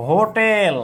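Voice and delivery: হোটেল drawn out, h clearly audible; teacher dictating হোটেল with a clear h; sounded H. Shown as a demonstration. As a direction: stretch হোটেল into "hooo-teel". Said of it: "এবার বলেন তো".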